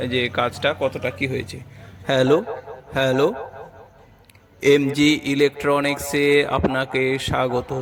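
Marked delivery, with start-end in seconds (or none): 2.1-7.7 echo. Real, not acted. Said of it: "ইকো হচ্ছে".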